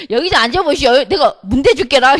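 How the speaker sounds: Jeolla dialect. Shown as a demonstration. Speaker repeating the line for the congregation, in Jeolla dialect. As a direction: lay the Jeolla twang on again. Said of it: "이거를 전라도 사투리로".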